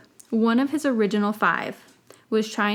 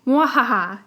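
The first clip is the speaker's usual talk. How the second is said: maniacal laugh; 3 semitones higher, 7 dB louder than usual. Acted. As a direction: teach the pet an evil laugh. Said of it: "he said".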